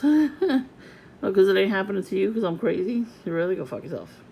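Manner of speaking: loud, fast, laughing scorn at doubters; laughing retort. Retold or imitated. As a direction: bark it back at them, half laughing.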